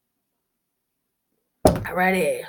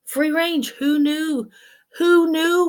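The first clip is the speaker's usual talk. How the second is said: higher repeat; 5 semitones higher, slower than usual. Shown as a demonstration. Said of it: "the other one is, uh, free range".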